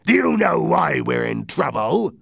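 lightly voiced pirate captain challenging his crew. Silver to his men, mildly challenging.

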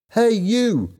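high, drawn-out summons; shouted call. A narrator's reading. Helen calls to the younger boy, shouted call. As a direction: call out high to get his attention. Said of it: "she shouted".

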